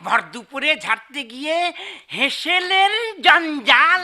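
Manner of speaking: husband reading the elegy aloud; reading a poem. Acted. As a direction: recite each line with a steady rhythm. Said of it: "আমি পড়ছি".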